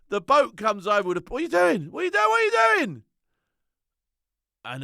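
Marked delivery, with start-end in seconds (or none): 1.3-3.0 loud, climbing ever higher with each repeat; incredulous yelling. Retold or imitated. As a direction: yell it louder and higher each time. Boat crew yelling at him.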